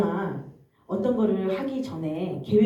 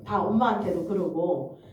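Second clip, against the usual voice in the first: ordinary delivery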